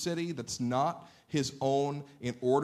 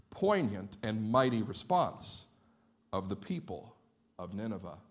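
sincere; 3 semitones lower than usual. Real, not acted. Preacher admires the response of the people, sincere. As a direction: say it earnestly, easing down at the end. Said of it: "now I'm not being sarcastic".

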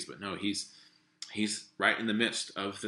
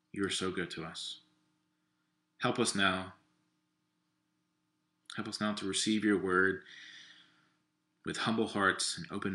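prayer. Acted. Leads the congregation in prayer.

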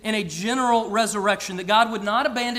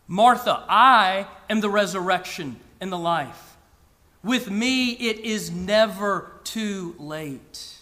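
profound, powerful Jesus. Retold or imitated. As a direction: proclaim it like Jesus speaking to Martha. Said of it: "saying profoundly and powerfully".

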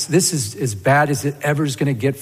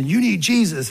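higher-pitched, mildly heated scolding; retold angry outburst; 5 semitones higher than usual. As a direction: imitate snapping at someone in frustration. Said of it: "just out of anger".

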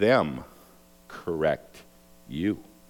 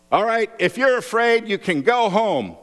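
higher, louder commander's call; calling out to troops; 12 semitones higher, 4 dB louder than usual. Acted. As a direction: address the whole army. Gideon calls out to troops.

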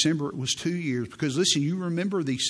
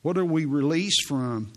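ordinary talk

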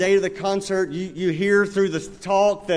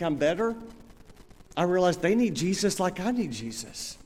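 model prayer; 2 semitones lower than usual. Shown as a demonstration.

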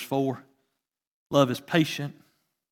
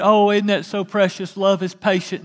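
mock sweet reading; 4 semitones higher than usual. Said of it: "we always read it".

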